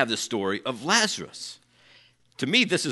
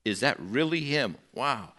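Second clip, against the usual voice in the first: hushed awe; 6 dB quieter than usual. Retold or imitated. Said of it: "they wanna see Lazarus".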